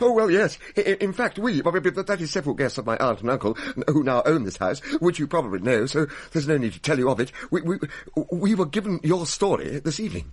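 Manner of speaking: flustered stammer. Acted. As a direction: fumble through the reply, rattled. Flustered answering the ghost.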